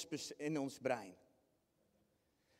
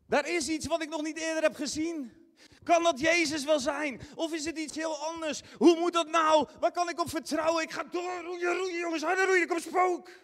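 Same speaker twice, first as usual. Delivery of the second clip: higher, louder frantic rush of questions; anxious panic; 8 semitones higher, 5 dB louder than usual. Acted. A frightened fisherman urges his crew to row harder. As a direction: fret and push the rowers harder.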